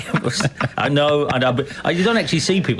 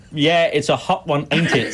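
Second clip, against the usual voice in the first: mock American accent. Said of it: "our American friend from Stepney".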